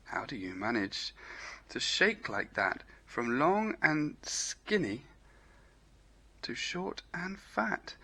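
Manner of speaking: hushed, gentle recitation of a rhyme; soft poem recital. Acted. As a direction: recite softly as if sharing a secret. Rabbit recites poem to worm.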